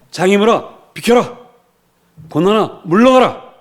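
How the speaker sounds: loud, high-pitched commands; preacher commanding obstacles to move. Shown as a demonstration. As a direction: fire off orders with authority. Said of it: "이렇게 명령하시기를 축복합니다".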